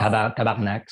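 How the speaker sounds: "tabarnak" with an open A before a French R; Quebecois swear pronunciation. Shown as a demonstration. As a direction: say "tabarnak", ending on a hard K. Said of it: "we say".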